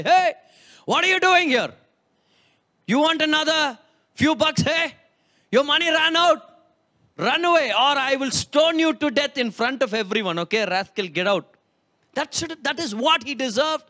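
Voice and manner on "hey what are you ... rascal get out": mock angry shout. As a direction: drive the returning son from the door, shouting. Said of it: "the dad will shout at him".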